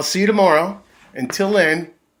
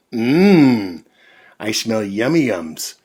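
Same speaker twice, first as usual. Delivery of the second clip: badger voice; 7 dB louder than usual. Badger voiced in read story.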